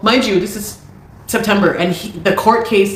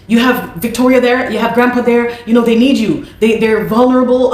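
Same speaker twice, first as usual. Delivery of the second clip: pressuring family; 4 semitones higher than usual. Retold or imitated. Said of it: "my family is pressuring me".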